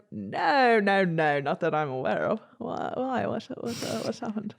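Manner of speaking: put-on posh English bloke, puzzled; posh hunter. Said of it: "Really posh, like a hunter".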